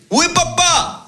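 put-on high eager child's voice; high son's reply. Son answering his father in a high eager voice. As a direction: chirp it up like a young boy.

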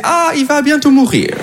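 high-pitched imitation of public worry; hammed-up fretting; mock concern. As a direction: lift it high, imitating worried onlookers. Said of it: "Maintenant, avec Joe Biden".

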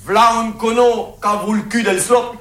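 high, slow Marseille twang; hammed-up southern accent; Provençal comic sayings. Shown as a demonstration. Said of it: "tu peux dire quelques locutions comiques?".

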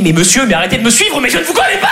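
playful fake alarm, rising to a high yell; mock shout. Julie shouting at him in the metro, mock alarm. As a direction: cry out like a pretend victim. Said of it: "et me crier".

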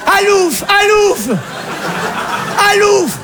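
very high, repeated shooing cry; mother shooing. Acted. Alsatian mother waving ham to scare him off, shooing cry. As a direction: chase him off with each call. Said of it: "elle met une tranche de jambon".

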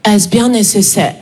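a hint of mock disapproval; disapproving lady. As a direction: imitate a prim audience member questioning you. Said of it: "une dame qui vient me voir".

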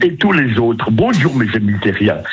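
voix de Bill. Acted. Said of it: "il recommence".

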